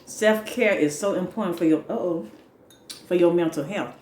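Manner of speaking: talking through a mouthful of food; words round a bite, mouth full. Real, not acted. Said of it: "talking with my mouth full".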